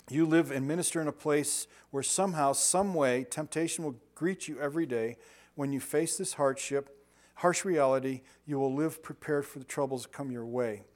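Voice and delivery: measured, emphatic reading aloud; devotional reading. Real, not acted. Preacher reading a devotional to listeners, measured emphatic reading. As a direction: read it out firmly, phrase by phrase.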